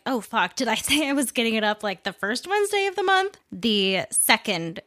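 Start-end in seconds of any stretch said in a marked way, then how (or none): 0.0-3.4 panicked self-quote. Retold or imitated. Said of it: "I was like".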